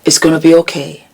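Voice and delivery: fast, firmer it's gonna be okay. Retold or imitated. Urging her younger self on, quick and firm. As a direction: push the comfort out quickly. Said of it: "I would have wanted somebody to tell me".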